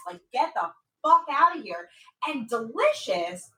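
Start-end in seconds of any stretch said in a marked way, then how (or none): 0.3-1.9 retold forceful order, only mildly raised; from the chest. Retelling him ordering her out, mildly full-chested. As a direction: mimic him putting his chest into it. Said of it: "he said it with his fucking chest".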